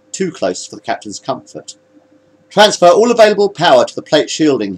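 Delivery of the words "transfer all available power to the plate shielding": higher-pitched firm order. A narrator's reading. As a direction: give it as a captain's order. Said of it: "he ordered".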